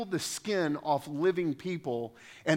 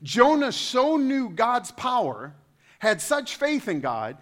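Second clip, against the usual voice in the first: sarcastic; 7 semitones higher, 5 dB louder, slower than usual. Acted. Sarcastic praise of Jonah's faith.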